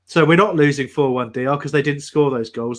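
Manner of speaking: a hint of the old manager's earnest reasoning; Roy Hodgson impression. Mocking the manager to D R, mild Roy impression. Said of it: "put on my best Roy Hodgson, um, mindset".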